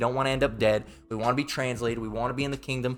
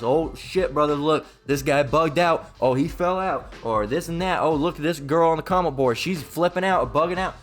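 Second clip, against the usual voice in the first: mocking online commenter; 3 semitones higher than usual. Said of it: "we do not wanna have videos made about us".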